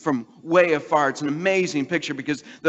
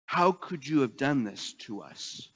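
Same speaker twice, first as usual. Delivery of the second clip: tense quiet rebuke; 3 semitones lower, 5 dB quieter, slower than usual. Retold or imitated. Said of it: "But she says".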